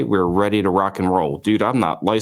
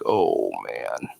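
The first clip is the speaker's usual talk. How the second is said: low, soft sinking "oh, man"; despairing groan; 11 semitones lower, 5 dB quieter than usual. Retold or imitated. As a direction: let the air go out of you in defeat. Hands in face, deal collapsing.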